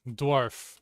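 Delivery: "Dwarf" said slowly and clearly, d-w onset, long or, crisp final f; British dwarf. Shown as a demonstration. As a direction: model "Dwarf" carefully for a learner, one syllable. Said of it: "Not quite".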